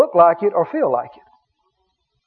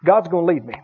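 lower, relieved exhale into the words; sigh of relief; 3 semitones lower, faster than usual. Acted. Believer trusting God to lead, relieved. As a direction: let out a breath, then settle lower. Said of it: "breathe a sigh of relief and go".

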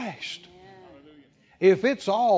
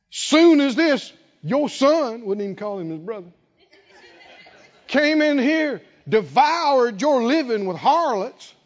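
higher, rising into a mocking wail; jealous elder son; 5 semitones higher, 4 dB louder than usual. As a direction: spit out the brother's sins with envy. Elder son's jealous outburst.

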